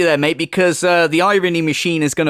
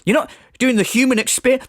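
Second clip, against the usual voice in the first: mock robotic quote; 5 semitones higher, faster than usual. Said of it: "refer to people".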